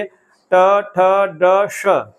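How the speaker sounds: slow, careful ट, ठ, ड leading into श, with the tongue held on the retroflex spot; pronunciation demo. Shown as a demonstration. Teacher to students, demonstrating where श is made, slowly and carefully. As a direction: sound out ट ठ ड slowly, then slide into श. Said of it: "देखिए".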